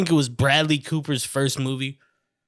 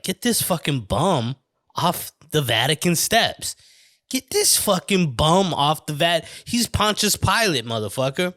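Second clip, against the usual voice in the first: outraged Pope; 2 semitones higher than usual. Acted. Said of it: "the Pope would be like".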